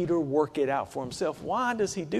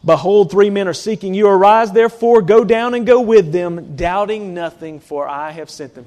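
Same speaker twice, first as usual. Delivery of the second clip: loud proclaiming Spirit; 10 dB louder than usual. Retold or imitated. Holy Spirit commanding Peter to go with the men, booming loud. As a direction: boom it out like a voice from heaven. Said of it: "confirms to him".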